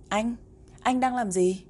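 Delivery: a small sister's high, curious call; little girl's voice. Acted. Little sister asking her busy brother what he's doing, curious. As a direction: pipe up like a little girl tugging at her brother.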